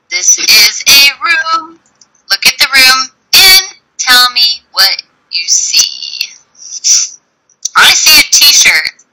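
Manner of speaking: slow, sing-song teacher voice; reading to a toddler. Acted. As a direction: spell it out slowly for a little child. Teacher modelling to a child.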